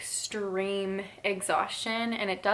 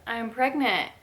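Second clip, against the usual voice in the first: out of breath; 3 semitones higher, 6 dB louder than usual. Real, not acted. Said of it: "I am so out of breath".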